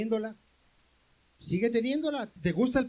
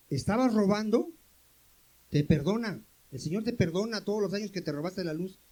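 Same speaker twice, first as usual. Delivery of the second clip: ordinary delivery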